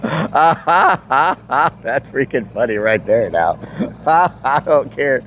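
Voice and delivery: slow words through laughter; laughing while talking. Real, not acted. Laughing at chat joke.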